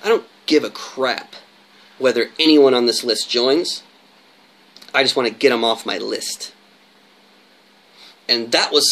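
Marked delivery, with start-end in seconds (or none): 0.0-6.5 casual demo of indifference; don't-care attitude. Shown as a demonstration. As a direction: say it like you truly don't care who joins. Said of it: "Here's your attitude".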